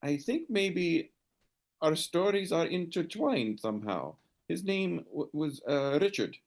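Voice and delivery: high woman's voice turned earnest about her brother; serious lady. Acted. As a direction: turn dead serious and confide. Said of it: "She says".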